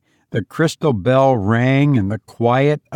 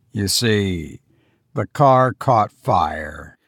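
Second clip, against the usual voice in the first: low, halting, subdued voice; weary man explaining a death; tired, grieving husband; 4 semitones lower than usual. Acted. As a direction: break the news gently, with pauses. Voices the tired husband breaking news.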